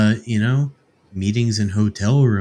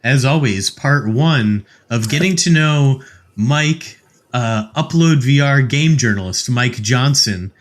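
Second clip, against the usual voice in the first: podcast host outro; 2 semitones higher than usual. Real, not acted. Host signs off part one.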